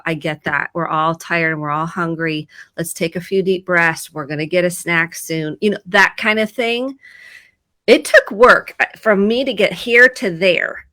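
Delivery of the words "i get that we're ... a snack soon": calm reassurance. Retold or imitated. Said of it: "And I go".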